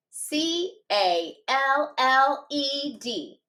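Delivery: letters tapped out slowly one by one; slow spelling. Shown as a demonstration. Teacher modelling spelling for students, slow tapped letters. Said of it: "Watch me first".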